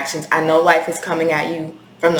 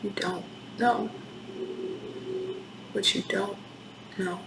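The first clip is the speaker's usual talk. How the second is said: fading whisper; 17 dB quieter than usual. Real, not acted. Reader overcome, voice fading.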